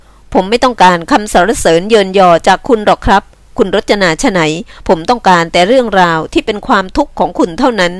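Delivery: lightly voiced, firm man; firm earnest man. Man asks only for her troubles, firmly. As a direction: brush off her thanks firmly.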